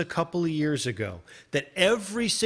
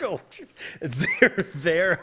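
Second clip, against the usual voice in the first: a hammed-up there there, louder; mock soothing; 3 dB louder, much slower than usual. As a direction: pat him on the head with your voice. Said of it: "I was petting him".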